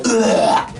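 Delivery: penguin charge grunt. Retold or imitated. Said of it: "they just go".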